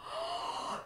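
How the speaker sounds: high, quick gasp; excited gasp. Pretend. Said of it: "Show me your really excited face".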